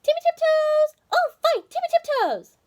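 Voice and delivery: very high, loud call down the hole. Acted. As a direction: shout down into the hole for him. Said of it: "called down".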